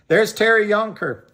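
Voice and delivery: ordinary talk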